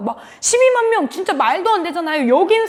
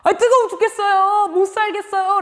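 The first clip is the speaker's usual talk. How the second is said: higher-pitched, mock whiny outburst of exasperation; Jonah's angry complaint; 5 semitones higher than usual. Preacher voices Jonah griping to God about the heat, mock angry. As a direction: complain crossly about unbearable heat, lightly acted. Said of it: "라고 하면서 또 화를 막 내고 있는".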